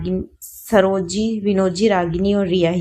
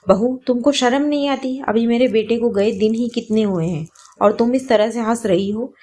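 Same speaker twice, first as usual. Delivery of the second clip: higher, sharp scolding at the daughter-in-law; angry scolding; 4 semitones higher than usual. Acted. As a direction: rebuke her for laughing, raising the pitch. Mother-in-law scolds laughing widow. (सास की ऊँची, तीखी डाँट)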